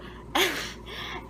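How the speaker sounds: short unvoiced panicky gasp; mock hyperventilating; imitated freak-out noise. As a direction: act out a sharp breath of panic. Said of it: "and I'm freaking out".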